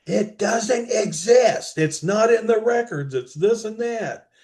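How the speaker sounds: imitating a dismissive bureaucrat; dismissive official. Retold official dismissing the evidence.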